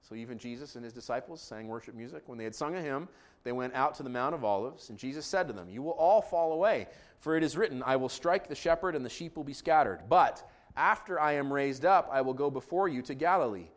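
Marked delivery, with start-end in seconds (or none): 2.3-13.7 measured, formal Bible reading; scripture reading. Real, not acted. Pastor reading Mark fourteen to congregation, scripture reading. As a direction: read the narrative out phrase by phrase.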